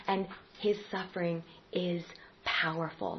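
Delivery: "and his suffering is powerful" whispered softly; a soft whisper to land the point; whispered close. Shown as a demonstration. Closing three-part list.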